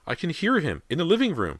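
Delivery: high, eager mother's voice; excited hope. A narrator's reading. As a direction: exclaim as you hear your lost son. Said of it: "Missus Fraser's expression brightened".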